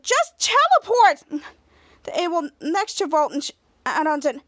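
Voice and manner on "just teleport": slow emphatic. Retold or imitated.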